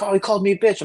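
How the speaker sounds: lightly mock the angry kid; imitating Igor. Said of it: "He's like".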